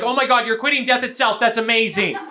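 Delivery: mock-amazed congratulations; gushing congratulations. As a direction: gush praise at someone quitting. Imitates stranger congratulating a quitter.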